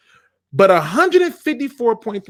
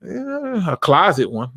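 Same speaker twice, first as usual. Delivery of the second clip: sheepish fan; slower than usual. Retold or imitated. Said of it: "this is exactly the response I get".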